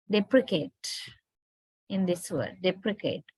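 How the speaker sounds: deprecate with a schwa in the middle; reduced middle vowel. Shown as a demonstration. Teacher shows the replaced sound, deprecate with schwa. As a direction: say deprecate with a weak uh after dep. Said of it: "is replaced by a".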